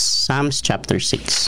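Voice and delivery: "Psalms" drawn out slowly; slow announcement. Shown as a demonstration. Pastor announcing the reading to the church, slow.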